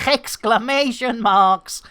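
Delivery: "exclamation" with a heavy H in front; jokey, throaty H starting "exclamation"; added H sound. Pretend. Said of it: "I've gotta stop doing that".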